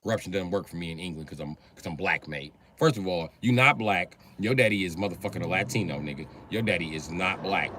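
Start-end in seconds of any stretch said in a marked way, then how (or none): 0.0-2.5 mock British accent. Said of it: "That nigga said".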